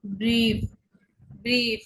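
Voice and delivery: "ব্রিফ" with a long ee. Shown as a demonstration. Teacher giving an ie example, long "ই". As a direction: stretch the vowel in "ব্রিফ". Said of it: "দীর্ঘ ই".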